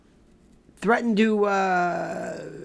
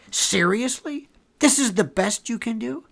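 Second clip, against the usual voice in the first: higher-pitched incredulous questions; scornful disbelief; 4 semitones higher than usual. Real, not acted. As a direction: challenge them as if you can't believe it. Scornful rebuke of prosecutor.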